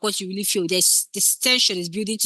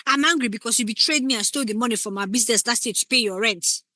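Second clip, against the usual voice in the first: on the nose; 2 semitones higher than usual. Shown as a demonstration. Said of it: "It doesn't make any sense".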